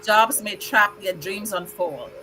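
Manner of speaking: measured, rhythmic poem reading; steady reading with pauses at line ends; poem recital. Acted. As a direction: recite it like a tribute poem to honoured guests. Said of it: "I prepared a very special poem for all of you".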